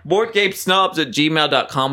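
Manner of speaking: slow, deliberate: "Board game snobs at gmail dot com"; careful spelled-out address. Shown as a demonstration. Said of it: "Do you want a job in board gaming?".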